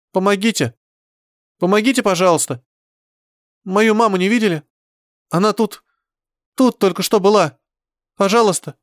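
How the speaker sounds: high, pleading calls for help; a lost child crying out for mum; fluttering cries for help. Acted. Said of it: "Хотелось кричать".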